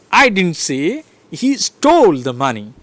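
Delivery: STOLE punched and falling; stress on STOLE. Shown as a demonstration. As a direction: hit the word stole. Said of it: "So I am stressing".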